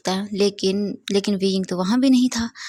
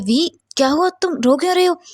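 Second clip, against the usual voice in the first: higher, urgent concern; worried Wang Ji; 7 semitones higher, 3 dB louder than usual. A narrator's reading. Wang Ji finding Wei crying in the kitchen, worried. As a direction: rush to ask why he cries. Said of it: "जल्दी से विंग के पास जाता है".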